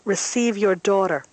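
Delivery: crying out. A narrator's reading. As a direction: call out as if to someone beyond. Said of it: "I cry out".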